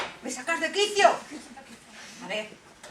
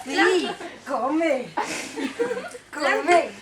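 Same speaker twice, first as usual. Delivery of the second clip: put-on old hag. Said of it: "la bruja".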